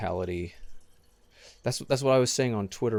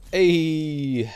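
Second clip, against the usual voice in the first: loud sudden shout; 8 semitones higher, 9 dB louder than usual. Real, not acted. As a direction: yell out in surprise. Loud shout while playing.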